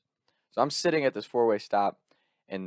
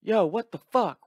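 mock outrage; 11 semitones higher, 3 dB louder than usual. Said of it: "And we're like".

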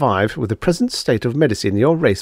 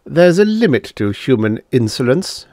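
icy; 2 semitones higher than usual. Acted. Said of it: "Lif said icily".

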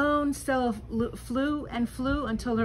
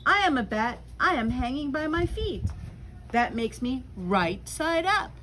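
bat voice; 3 semitones higher than usual. Acted. Creature argues back.

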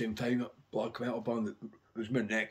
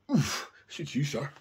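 Paul White impression; 4 semitones higher, 4 dB louder, slower than usual. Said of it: "Paul White is going".

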